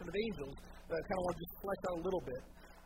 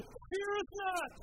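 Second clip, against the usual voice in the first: mock archaic angel; 10 semitones higher, much slower than usual. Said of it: "They say".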